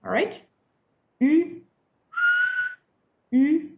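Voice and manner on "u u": "U" with lips rounded as if to whistle; French u sound. Shown as a demonstration. Teacher showing the whistle-lip "U" to students. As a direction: demonstrate "U" with the whistle shape. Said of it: "as if you were about to whistle".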